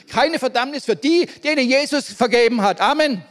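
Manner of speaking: proclaimed. Shown as a demonstration. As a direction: lift the phrase into a proclamation. (lauter verkündet)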